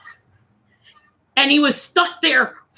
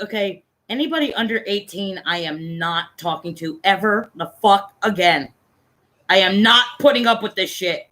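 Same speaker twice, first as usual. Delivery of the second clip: lower, emphatic refusal; firm vow; 3 semitones lower than usual. Retold or imitated. Man swearing off chatting with minors, firm and emphatic. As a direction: lay down the rule, stressing each refusal. Retold vow never to chat again.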